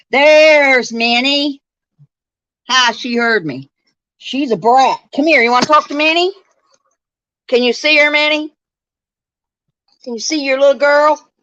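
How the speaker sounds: high, sing-out voice for a dog; excited pet talk. Real, not acted. Showing the dog who is on.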